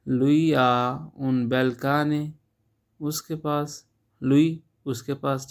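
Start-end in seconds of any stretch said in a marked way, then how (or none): 0.1-2.3 slow model phrase. Shown as a demonstration. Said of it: "teacher models Italian slowly".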